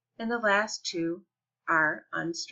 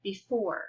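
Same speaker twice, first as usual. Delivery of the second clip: "Before" with "fore" stronger than "Be"; stress on second syllable; 3 dB quieter than usual. Shown as a demonstration. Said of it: "The second one is stressed. It's louder".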